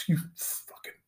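hushed exasperated whisper; whispered curse. Acted. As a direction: breathe the curse in disbelief. Reaction to YouTuber answer.

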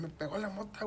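high, softened mock scream; grito imitado. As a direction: replay your panicked yell at reduced volume. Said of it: "así le grité como cinco veces". (grito agudo imitado, a medio volumen)

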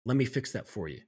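eager little bear. Retold or imitated. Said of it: "And he's like".

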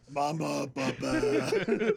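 lightly voiced grown-man baby; Bert. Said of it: "I don't think Bert's voice was ever high".

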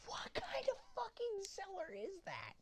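high breathy whisper. Pretend. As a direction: hiss it out high and secret. Whispered mock aside.

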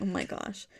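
whispered under the breath. Real, not acted. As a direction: breathe it out as a private aside. Whispered aside after laugh.

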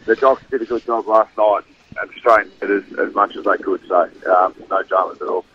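nasal voice. Real, not acted. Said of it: "sorry if I sound a little bit, um, nasally".

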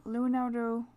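Leonardo slow in a light French accent. Shown as a demonstration. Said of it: "that's my French accent".

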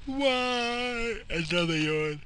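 high whining voice; whiny complaint. Pretend.

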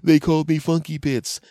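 put-on high, loud whining child; whiny kid. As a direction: complain like a hurt little boy.

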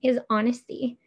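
talking through a raspy throat. Real, not acted. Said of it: "here we go again with my raspy voice".

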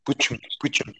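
understated segment title with spoken jingle; show segment intro. Pretend. Host insists on presenting the question first, announcer-like title delivery. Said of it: "sin hacer yo la presentación".

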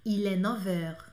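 "neuf heures" slowly with a V link; slow, careful "neuf heures". Shown as a demonstration. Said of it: "fica com som de V".

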